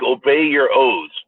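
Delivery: demanding the government. Retold or imitated. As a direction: lay down the law word by word.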